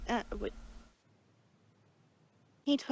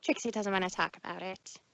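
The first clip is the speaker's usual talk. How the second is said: shuddering; 5 semitones lower, 5 dB quieter, faster than usual. Acted.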